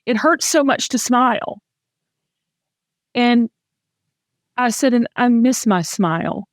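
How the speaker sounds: real, halting emotion with long pauses; emotional. Real, not acted. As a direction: stop to compose yourself between phrases, fighting tears. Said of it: "I'm gonna get emotional talking about it".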